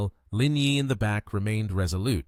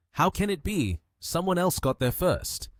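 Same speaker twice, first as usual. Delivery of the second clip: astonished; 8 semitones higher than usual. A narrator's reading. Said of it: "couldn't help but be astonished".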